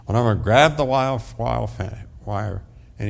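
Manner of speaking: choked-up rush at the fence; retold anguish. Retold grief at fence, loud.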